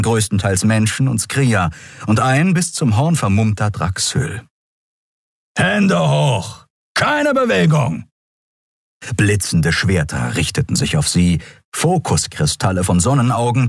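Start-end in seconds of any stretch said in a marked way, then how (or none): 5.6-8.1 high, firm commands; guard commands. Acted. Peacekeepers surrounding the pair, barking commands. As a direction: order them to freeze.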